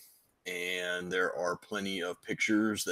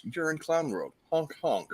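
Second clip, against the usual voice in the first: high, goofy clown voice; silly clown; 8 semitones higher than usual. Acted. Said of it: "This Week in Clown World".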